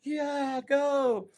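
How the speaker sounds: hyped go-ahead. Retold or imitated. Owner sending the paddler off to his ride, thrilled high urging. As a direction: wave him on, carried away.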